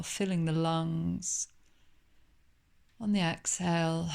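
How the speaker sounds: unhurried yoga nidra guidance with long pauses; calm meditation guide, lingering on phrase endings; guided meditation. Acted. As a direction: welcome them gently into calm, leaving space between phrases. Leads body scan and breathing.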